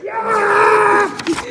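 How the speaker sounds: high drawn-out shout. A narrator's reading. Jojo shouts from the tower top, high and drawn out. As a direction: belt out the one extra yacht. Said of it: "he shouted out".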